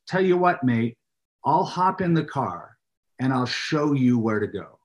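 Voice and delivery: lightly attempted British local; a hint of a Brit offering help; British accent. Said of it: "better than your British, uh, one".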